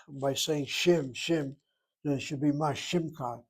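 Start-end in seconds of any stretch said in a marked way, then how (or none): 0.7-1.6 shim said slowly as a closed syllable; pronunciation demo. Shown as a demonstration. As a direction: pause after shim. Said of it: "If this were a shvanach".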